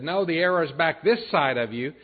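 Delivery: calling out. Acted. Archer calling to the boy fetching arrows, calling out. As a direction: call out lightly, as if to someone off a little way. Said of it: "Jonathan called out to the young boy".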